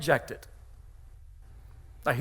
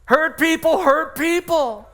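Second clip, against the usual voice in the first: higher, louder, slow and emphatic; proclaimed; 8 semitones higher, 4 dB louder, slower than usual. Shown as a demonstration. Pastor proclaiming slogan to congregation, higher and louder. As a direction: ring it out slowly like a headline. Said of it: "repeated slogan, proclaimed".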